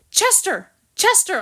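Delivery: high calls of a name into the rain; calling out. A narrator's reading. Dog calling to his friend through pouring rain. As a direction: call out to him over the storm. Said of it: "I called out".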